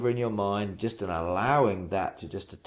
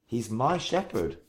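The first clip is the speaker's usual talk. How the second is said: "my" stressed above "shepherd"; emphatic "my", then an easy fall on "shepherd"; 2 semitones higher than usual. Shown as a demonstration. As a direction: hit "my" to claim him personally. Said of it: "then I would emphasize each word".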